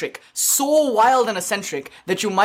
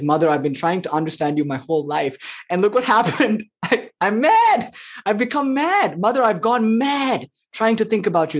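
mad devotion; 2 semitones higher than usual. Retold or imitated. Poet telling the Mother he's gone mad, mock crazed. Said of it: "Kamala Kanta says".

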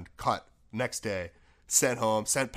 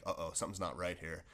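hushed dread; 6 semitones lower, 10 dB quieter than usual. Retold or imitated. Retold dread in locker room.

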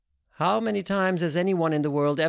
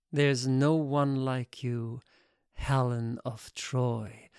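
tender admiration; 3 semitones lower, slower than usual. Acted. Admiring man praises the dancer.

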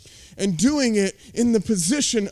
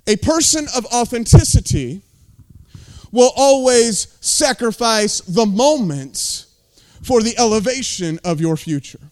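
preaching loud; 5 dB louder than usual. Real, not acted. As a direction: drive it home to the congregation. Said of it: "preaching emphasis".

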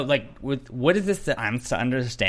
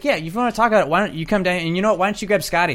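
higher, louder mocking challenge; raised taunting call-down; mock taunting houseguest; 7 semitones higher, 3 dB louder, faster than usual. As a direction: goad her to come down. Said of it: "he was like".

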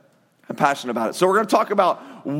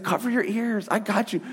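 soft comfort; 6 dB quieter than usual. Retold or imitated. Father shielding boys from thunder.

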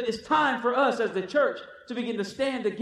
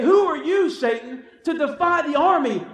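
loud, higher and rising defiance; defiant challenge; 3 semitones higher, 5 dB louder than usual. Pretend. Believer confronting the enemy with a loud, high challenge. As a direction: stand up and call out the enemy. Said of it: "look at the enemy and say".

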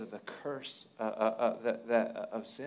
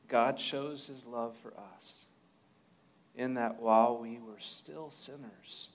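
scripture reading. Acted. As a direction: read it like scripture. Reads Romans aloud.

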